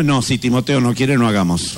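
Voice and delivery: lightly voiced wife giving in to the dog; wife's excuse. Wife declines intimacy because the dog objects, low.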